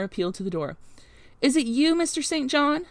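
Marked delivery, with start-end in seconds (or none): 1.4-2.9 high, loud anxious call; crying out. A narrator's reading. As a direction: call out to whoever is at the door. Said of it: "cried Hannah".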